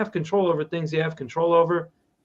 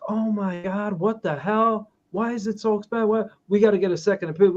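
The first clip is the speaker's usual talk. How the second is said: imitating his wife's panicked rush, higher and fast; mock panic; 5 semitones higher than usual. Retelling his wife panicking over the repair estimate, mock panic. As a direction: play her spinning out over the price, breathless. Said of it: "She's freaking out".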